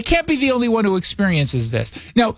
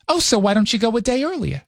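higher-pitched New York mom impression; mother's New York accent; 4 semitones higher than usual. Mother advises son on travel, high New York accent. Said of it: "talks like this all the time".

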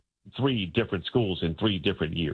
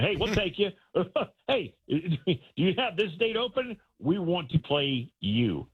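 high-pitched mock yell, no real volume; mock screaming; 8 semitones higher than usual. Teams begging for a homecoming game, mock screaming. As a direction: imitate an eager screamer, voice pitched way up. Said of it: "just screaming, going".

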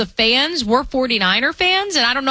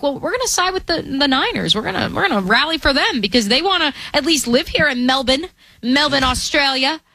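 light Australian accent voicing fans, high; a touch of Aussie, raised pitch; 3 semitones higher than usual. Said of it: "did you just give us your Australian accent?".

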